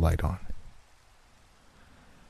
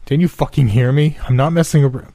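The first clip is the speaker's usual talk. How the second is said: angry shout; 8 semitones higher, 4 dB louder than usual. Acted. Yelling at unseen intruder again.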